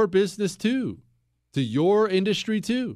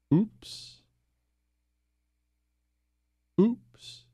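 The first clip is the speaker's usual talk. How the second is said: mock oops; 5 semitones higher than usual. Sarcastic fake surprise after rant.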